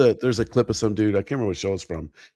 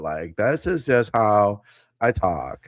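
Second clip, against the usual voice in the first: imitating nerdy girl; slower than usual. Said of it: "She talks like that".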